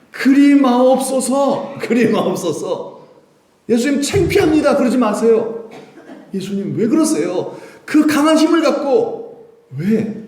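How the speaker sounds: high, loud, drawn-out entreaty; pleading protest. Acted. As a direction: beg and argue with your master. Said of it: "베드로가 예수님을 붙들고 항변했다".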